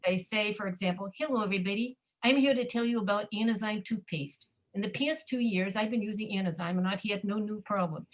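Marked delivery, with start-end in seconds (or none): 1.2-8.1 Midwest accent. Shown as a demonstration. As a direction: demonstrate a Midwestern American accent. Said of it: "That's the way they talk in the Midwest".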